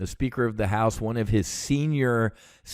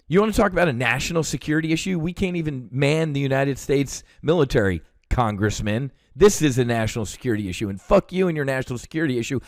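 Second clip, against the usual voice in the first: fast, heated retold tirade; steamed; 3 semitones higher, faster than usual. Veteran retells telling off a congressman on national security, steamed. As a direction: push through it indignantly, pitch climbing toward the end. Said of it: "I was steamed".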